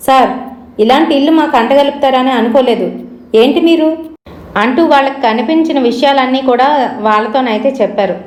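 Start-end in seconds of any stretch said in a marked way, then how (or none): 0.1-3.9 mildly indignant complaint, rising at the end; understated anger, pitch climbing into the challenge; angry. Acted. Tenant phoning the house owner to complain, mildly angry. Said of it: "Shweta కోపంతోనైతే call చేసింది".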